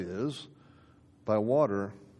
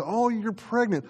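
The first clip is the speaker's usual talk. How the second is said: mock curious question; 4 semitones higher than usual. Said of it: "to prospective mom-to-be ... and say".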